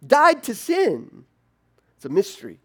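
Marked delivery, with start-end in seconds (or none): 0.0-1.2 loud, high, slowed-down disbelief; astonished. Pretend. Reader stunned by Paul's claim, loud and high. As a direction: gasp it out in shock. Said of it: "you're supposed to go".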